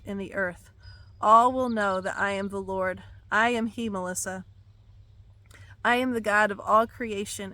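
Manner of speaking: commanding prophetic proclamation; thundering prophecy. Acted. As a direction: declare it as the Lord's voice. Reads God's words aloud.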